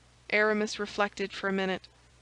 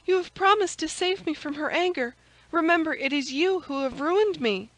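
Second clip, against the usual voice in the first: put-on higher, urgent young maid pleading; distressed maid; 8 semitones higher, 3 dB louder than usual. Maid holding her protector to his promise, higher urgent plea. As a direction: plead as a frightened servant girl.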